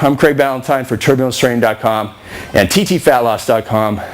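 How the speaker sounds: usual speaking voice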